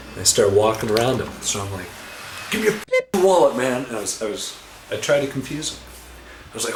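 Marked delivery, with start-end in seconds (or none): 2.5-3.9 robber. Retold or imitated. Robber demands again.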